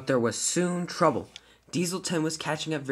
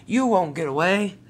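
higher-pitched taunting threat; storybook baddie in pursuit; menacing villain; 4 semitones higher, 4 dB louder than usual. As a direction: taunt the runaways. Villain Diesel catches up.

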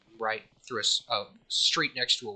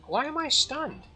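surprised. Real, not acted. Character suddenly stunned in game.

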